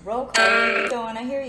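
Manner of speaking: loud call after someone leaving. Real, not acted. Ghost hunter calling after the spirit, loud.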